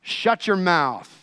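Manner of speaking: slow, firm order; stern parental rebuke. Acted. Parent correcting a disobedient child, stern rebuke. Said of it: "Like a parent correcting their disobedient child".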